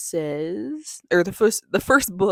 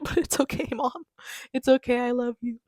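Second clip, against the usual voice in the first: higher-pitched, affectionate consoling; tender little "it's okay" voice; playful reassurance; 6 semitones higher than usual. Pretend. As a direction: reassure Mom sweetly, pitched up. Reassures Mom about dented book.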